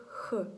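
"х" alone as a throat fricative; isolated kh sound. Shown as a demonstration. Teacher showing how jota always sounds, isolated kh. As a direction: sound out "х" by itself, not the letter's name. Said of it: "вона вимовляється як звук".

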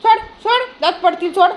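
urgent high-pitched commands; sharp command. Real, not acted. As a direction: order a dog firmly to drop it. Ordering dog to let go.

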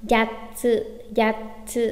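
"Yatsu" with a doubled t; "Yatsu" in two beats, dropping down; low geminate. Shown as a demonstration. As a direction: hold a stop after ya, then release tsu in "Yatsu". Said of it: "đều đọc nặng xuống nha".

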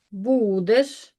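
Будеш with a long БУ and unstressed е; stress on first syllable. Shown as a demonstration. Teacher marking unstressed vowels for pupils, stressed syllable stretched. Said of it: "е буде ненаголошеним".

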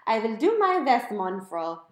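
high, loud, hammed-up German accent; an overeager German butler voice; German computer squeal. A narrator's reading. Home computer answering Mom, squealing in a German accent. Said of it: "high-pitched German accent".

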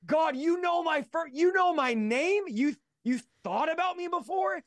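high-pitched, stunned question to God; acting out being astonished he was noticed; amazed disbelief. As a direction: recreate awed disbelief, pitch way up. Amazed that God knows his name.

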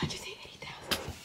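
rushed, tearful whisper; overcome with tears. Real, not acted. Streamer absorbing the eighty thousand milestone, choked-up whisper. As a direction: voice gone, whisper it fast in disbelief. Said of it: "I'm crying".

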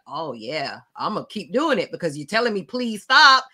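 mocking the abuser's smug reply. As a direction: sneer it like an abuser who won't quit. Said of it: "it's like".

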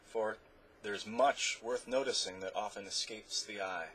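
a soft, hushed parting gift; softly. Acted. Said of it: "he said softly".

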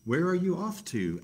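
a bouncy rabbit hailing Bear; Rabbit calling out. Acted. Rabbit calls out.

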